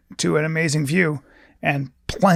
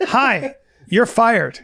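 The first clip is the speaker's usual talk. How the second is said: sadistic boss; 7 semitones higher, much slower than usual. Pretend. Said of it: "I'd go".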